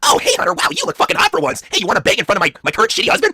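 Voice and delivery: high, put-on wife voice; Stephanie. Wife flirting in front of her husband, high and brazen.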